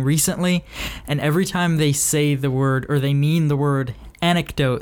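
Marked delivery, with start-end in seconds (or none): 4.2-4.8 "anecdote" with a k sound in the middle; correct pronunciation. Shown as a demonstration. Podcaster giving the word people get wrong, "anecdote" said correctly. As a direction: say "anecdote" as AN-ek-dote. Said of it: "words that people consistently say wrong".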